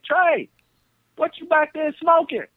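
high calling voice from another room; granddad calling. Retold or imitated. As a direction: call the name up high, a room away. Grandfather accusing.

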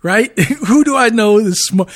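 high, loud laughing panic; frantic laughing question. Retold or imitated. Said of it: "I was like".

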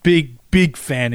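"Big, big fan" slowly, both bigs drawn out; extra emphasis on BIG. Shown as a demonstration. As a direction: lean hard and slow on each "Big". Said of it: "I put extra emphasis on that".

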